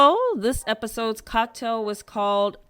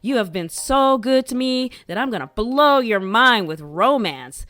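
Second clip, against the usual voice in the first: mock hype, a bit louder; hyped up; 3 semitones higher, 4 dB louder than usual. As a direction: retell a big romantic promise with emphasis. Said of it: "he really hyped up that dinner".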